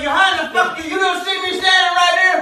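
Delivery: heated yelling back and forth; angry shouting match; shouting argument. Real, not acted. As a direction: yell at him for not looking. Shouting quarrel over spilled paint.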